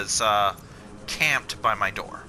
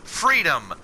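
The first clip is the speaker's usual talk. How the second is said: cat's thoughts; 3 semitones higher, slower than usual. Retold or imitated. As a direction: voice the cat's delight. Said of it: "she's like".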